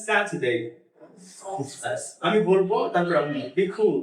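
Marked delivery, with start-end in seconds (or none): 0.1-0.5 British স্যাটারডে as 'sat-uh-dey', no r; British accent. Shown as a demonstration. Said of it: "British accent এটাকে বলা হয়". 3.6-4.0 cool with a puff of air after the k, 'khool'; English aspirated k. Shown as a demonstration. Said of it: "But the pronunciation will be".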